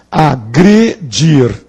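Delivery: "agredir" split into three slow syllables. Shown as a demonstration. Teacher pointing out the penultimate syllable, broken up slowly. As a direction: pause between the syllables of "agredir". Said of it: "é na penúltima sílaba".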